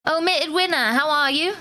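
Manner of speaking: put-on English accent, rising question; British accent. Streamer greets a viewer by username, put-on British accent. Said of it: "How is my English accent today?".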